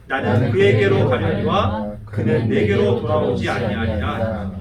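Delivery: slow group recitation of scripture; unison scripture reading. Real, not acted. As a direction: read the verse together, slowly and deliberately. Congregation reads scripture together. (천천히 함께 낭독하는 성경 구절)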